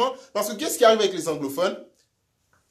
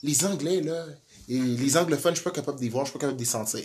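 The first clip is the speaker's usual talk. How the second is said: mock rural Quebecer; 6 semitones lower, 7 dB quieter, faster than usual. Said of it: "Elle va dire".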